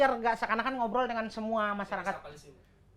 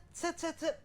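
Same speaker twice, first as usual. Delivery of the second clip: soft, high "set, set, set"; edit-cut sound effect; 6 semitones higher, 11 dB quieter, slower than usual. Shown as a demonstration. Explaining the edit to colleagues, imitated cut sound. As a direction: imitate quick cuts with a hushed, high voice. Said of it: "kalau secara edit tuh dia set".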